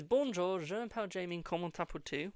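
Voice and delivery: schoolbook French pronunciation; French phrase. Shown as a demonstration. Learner showing off her only French to viewers, in beginner French. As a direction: say Bonjour, je m'appelle Jamie the way a beginner learner would. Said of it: "all I can pronounce is".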